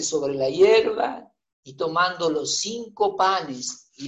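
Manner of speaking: measured, solemn Bible reading; scripture reading. Acted. Preacher reading Matthew aloud to the congregation, measured scripture reading. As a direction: read the gospel steadily to the church.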